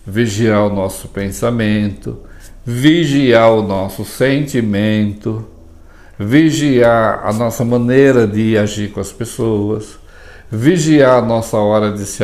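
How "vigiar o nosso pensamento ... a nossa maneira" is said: slow, deliberate listing; slow emphasis. Shown as a demonstration. Teaching what to watch over, slow and deliberate. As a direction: dwell on each "vigiar". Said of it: "vigiar a nossa palavra".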